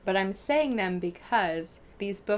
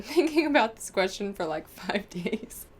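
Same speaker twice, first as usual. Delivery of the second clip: laughing. Real, not acted. Agonized over friend's mean question.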